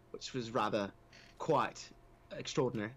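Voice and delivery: lightly put-on English accent. Shown as a demonstration. Telling host about talking in an English accent, mock English accent. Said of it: "got to talk in an English accent".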